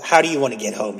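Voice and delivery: quick British-or-Australian question; attempted British accent. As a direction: try a rough British accent, fast. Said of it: "Am I Australian or British?".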